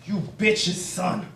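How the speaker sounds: slow, deliberate mock curse; dad swearing. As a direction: measure out the garbled insult as dad. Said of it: "Sometimes he gets it all twisted".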